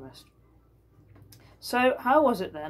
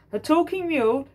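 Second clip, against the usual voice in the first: higher, louder disbelief; incredulous; 10 semitones higher, 6 dB louder than usual. Acted. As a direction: scoff at the absurd idea. Governor scoffing.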